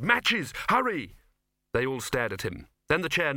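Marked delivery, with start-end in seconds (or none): 0.0-1.2 urgent shout. A narrator's reading. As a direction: yell it for help. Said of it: "Victor shouted".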